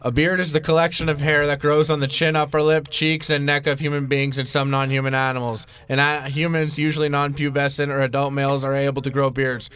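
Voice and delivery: flat, even monotone reading; robotic monotone. Real, not acted. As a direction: read it like a robot. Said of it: "You sound vaguely robotic".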